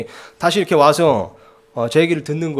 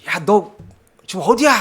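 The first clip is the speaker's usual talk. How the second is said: imitated yelling mom; 5 semitones higher, 4 dB louder than usual. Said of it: "막 소리를 지르시면서".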